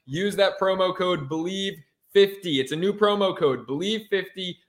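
usual speaking voice

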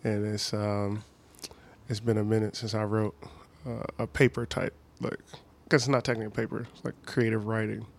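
dropping into a low, soft voice; whispering on the phone. Real, not acted. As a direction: talk low and hushed, focused. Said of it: "Why are you whispering all of a sudden?".

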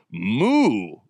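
long, drawn-out comic moo; bull mooing. Acted. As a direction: imitate a bull's moo. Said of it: "he followed up with".

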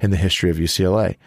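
brisk read-out of a speaker bio; reading a bio aloud. Real, not acted. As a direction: read it out like a formal introduction. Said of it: "I gotta read it for you".

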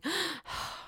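soft mock gasp; quiet sharp intake of breath, imitating shock; imitated gasp. Candace hearing the news, soft imitated gasp. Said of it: "And then Candace is like".

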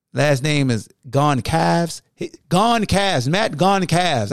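Goncalves spoken slowly and deliberately; slow careful Goncalves; careful name. Real, not acted. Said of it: "I hope I'm saying his last name right".

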